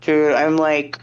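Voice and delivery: talking with phone in mouth; phone in mouth, muffled words. Real, not acted. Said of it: "I'm, like, putting my phone in my mouth".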